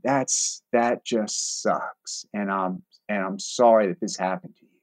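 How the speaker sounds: very slow, soft sympathy; slow talking it. Retold or imitated. Negotiator slowly sympathizing with the angry man, soft and unhurried. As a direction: stretch each word out quietly. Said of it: "I'm slow talking it".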